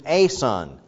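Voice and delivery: "a son" said slowly with "a" pointed; stress on A. Shown as a demonstration. Preacher naming the chosen word, stress on "a". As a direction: set "a" apart in "a son". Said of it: "he uses".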